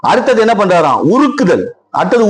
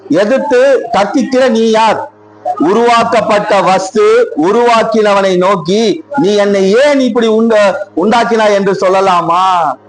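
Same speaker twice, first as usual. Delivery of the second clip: slow, measured Bible reading; scripture reading; slower than usual. Acted. Preacher reading the verse slowly to the congregation. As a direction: read the verse out slowly and solemnly.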